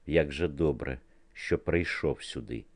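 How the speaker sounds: plain reading voice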